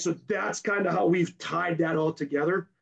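hoarse, worn-out voice. Real, not acted. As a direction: talk through a voice that's going. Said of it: "I'm sorry I'm losing my voice".

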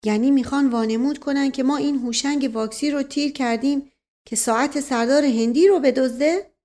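puzzled servant figure. Acted. Servant working out the supposed plot, lightly voiced and puzzled.

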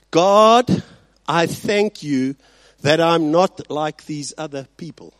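loud, slow boastful prayer; smug Pharisee. Acted. Preacher voicing the proud Pharisee in his prayer, smug. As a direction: thank God like a proud man showing off. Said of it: "The Pharisee stood and was praying to, this to himself".

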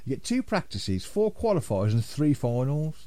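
hammed-up stallholder calling out prices; sing-song market patter, slow on the last bit; market trader. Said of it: "I sound like a market trader".

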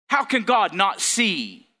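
a sudden mock shout as Satan; shouted taunt. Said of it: "and say".

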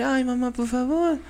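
put-on high-pitched childish begging; pleading little kid. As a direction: beg mum like a little child, hammed-up. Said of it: "ya no le vas a hablar así".

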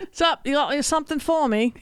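high mock Cockney; Cockney accent. Co-host joining in as a beggar, playful high Cockney. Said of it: "Here's my Cockney accent".

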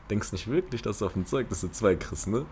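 mildly mocking teacher's jibe; nasty teacher. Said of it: "Sagt er einfach so richtig dreckig".

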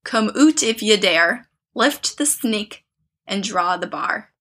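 slow, chanted rhyme in a clumsy Scottish accent; halting Scottish-spelling singsong, deliberately drawn out; bad Scottish accent. Shown as a demonstration. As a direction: read the rhyme slowly in a badly faked Scottish accent. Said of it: "I can't do a Scottish accent".

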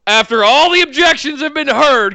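mock weary officiant; exasperated Efficient guy. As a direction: sigh it out like a put-upon man. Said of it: "he's like".

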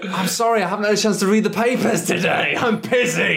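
high, flustered apology; flustered excuse. Retold or imitated. Caught by Russia not reading the news, high flustered excuse.

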